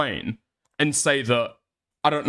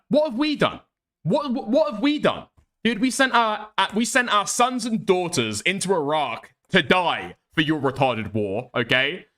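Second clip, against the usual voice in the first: high, hammed-up indignant protest; mock outrage; 4 semitones higher than usual. Brit streamer defending Britain, hammed-up high indignation. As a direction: play it wounded and defensive.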